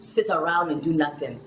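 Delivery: imitated Ghanaian mother setting expectations; lightly put-on Ghanaian accent; mother's Ghanaian accent. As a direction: lay down the law with a hint of Ghanaian accent. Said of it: "She would say".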